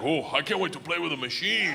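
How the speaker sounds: put-on Russian gangster eager as a child; kid on Christmas. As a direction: gush mildly like a kid awaiting a toy. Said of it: "looks like a kid on Christmas".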